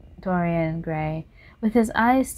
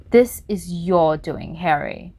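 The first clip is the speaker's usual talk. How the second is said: slow, heavy blame; a hint of bitterness, drawn out; bitterly; 4 dB louder, slower than usual. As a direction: lay the blame slowly. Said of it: "said the painter bitterly".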